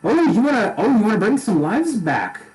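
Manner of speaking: high, bright Scottish god voice; a jolly god speaking in Scottish; Scottish accent. Acted. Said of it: "a little Scottish".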